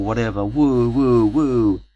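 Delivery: put-on loud, high drunken woo-hoos; party guy whooping drunk at his own house.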